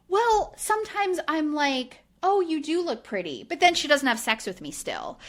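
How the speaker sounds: high, whiny mock voice of the husband; mocking impression of Jordan. Podcaster mocking the husband's entitled complaint, high whiny voice.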